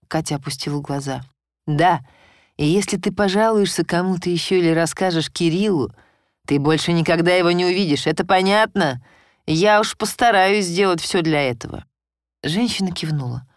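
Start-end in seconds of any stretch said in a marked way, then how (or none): 1.7-11.9 громкая угроза; запугать отнятием сына. Acted. Муж угрожает жене. (жёсткая угроза, громче)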